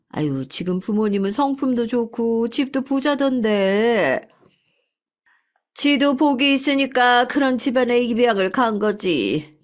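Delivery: gossipy restaurant owner. Acted. 식당 주인이 손님에게 입양 소문을 떠들며, 수다스럽게. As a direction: gossip brightly about the star's adoption.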